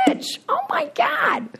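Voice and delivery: high, breathless whisper of shock; whispered surprise. Retold or imitated. Woman spotting her sober bartender friend, high surprised whisper. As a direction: gasp his name in disbelief.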